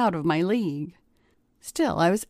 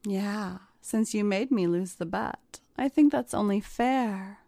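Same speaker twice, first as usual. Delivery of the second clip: soft, breathy and teasing; 3 dB quieter than usual. Acted. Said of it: "in a breathy voice".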